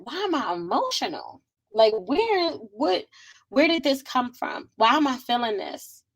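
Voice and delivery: exasperated confusion, replayed; retold bewilderment. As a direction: act out questioning yourself, pitch jumping up. Retelling her confused self-questioning.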